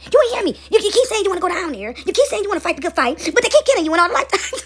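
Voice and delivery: a fed-up father talking down from heaven; exasperated God. Acted. God scolding a soul sent back again, high and exasperated.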